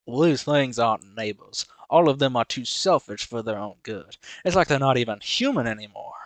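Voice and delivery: hammed-up Southern twang; put-on Southern accent. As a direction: read the post in a mock Southern voice. Reads the man's posts, put-on voice.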